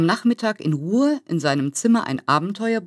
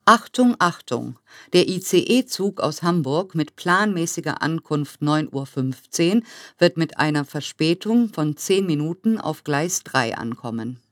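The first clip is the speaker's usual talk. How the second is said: through a megaphone. Acted. Train station loudspeaker announcement.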